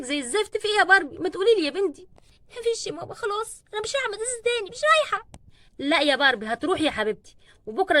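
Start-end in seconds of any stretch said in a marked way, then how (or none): 2.6-5.3 soft, then high outburst; tearful refusal. Acted. Crying daughter refuses to go back to school, then bursts out high. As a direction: sob out the refusal.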